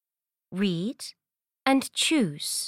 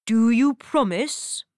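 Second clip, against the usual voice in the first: frog voice; 4 dB louder than usual. Acted. Frog asks princess.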